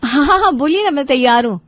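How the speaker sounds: eager. Acted. Wife eager for trip.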